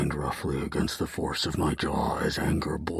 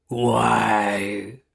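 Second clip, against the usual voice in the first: louder, higher hurt accusation; betrayed fury; 4 semitones higher, 5 dB louder than usual. Acted. Hero to Bethany, betrayed, louder and higher. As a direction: demand it, wounded. Furious demand.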